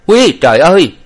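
high, loud startled cry; sudden frightened shout; cry of alarm. A narrator's reading. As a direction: yell in shock as she jumps. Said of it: "thì la lên".

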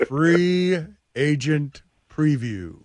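slow, booming hype announcer. Pretend. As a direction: stretch each word like a fight announcer. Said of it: "an announcer voice with free agency preview?".

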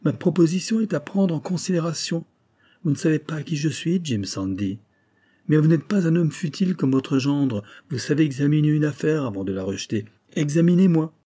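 lightly acted insistent Japanese doctor; insistent suitor doctor. Kasuga urges the millionaire.

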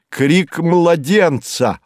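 high, drawn-out amazed exclamation; amazement. A narrator's reading. Lone wanderer hearing life in the dead wilderness, amazed. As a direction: marvel slowly at the impossible sound. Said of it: "Изумление моё".

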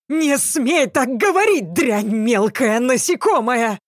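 high, near-shrieking yell, pitch way up; shouted back. A narrator's reading. Captor screams back at the heroine, high-pitched yell. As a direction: bellow it back, voice cracking high. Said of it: "заорал он в ответ".

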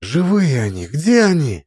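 shouting. Acted. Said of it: "закричала Цаган".

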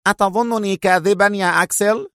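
stung and hitting back; indignant shout. A narrator's reading. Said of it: "صاح به لانسلوت".

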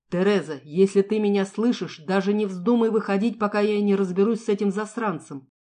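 loud protective warning; father shouting. Acted. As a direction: call out to hide her. Father shouting across the woods. (громкий крик отца)

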